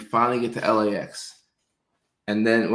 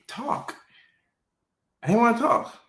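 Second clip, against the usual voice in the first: much higher, whiny squeak; squeaky whine; 12 semitones higher than usual. Retold or imitated. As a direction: whine it like a sulky kid. Emphatic high squeak complaint.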